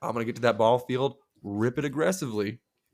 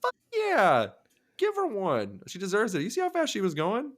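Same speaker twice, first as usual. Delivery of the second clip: gleeful egging on; 10 semitones higher than usual. Retold or imitated. Husband retelling urging the cop to ticket his wife, gleeful. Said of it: "I go".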